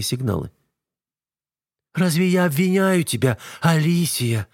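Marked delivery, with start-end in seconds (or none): 1.9-4.5 almost tender. A narrator's reading. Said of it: "почти с нежностью спрашивает Эва".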